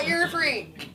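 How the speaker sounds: high, slow, drawn-out jeer through laughter; laughing mock accusation. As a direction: laugh it out, stretching the words. Acts out her reaction to the date.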